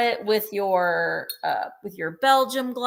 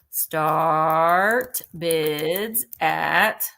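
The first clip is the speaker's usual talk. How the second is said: whispering; 5 semitones lower, much slower than usual. Acted. Auctioneer building suspense.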